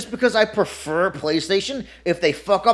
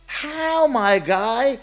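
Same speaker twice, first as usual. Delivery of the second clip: incredulous; 3 semitones higher than usual. Retold or imitated. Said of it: "And I'm like".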